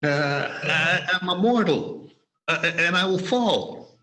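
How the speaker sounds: nervous, halting plea; faltering appeal; pleading. Acted. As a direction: plead hesitantly to be spared. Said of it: "he pleaded".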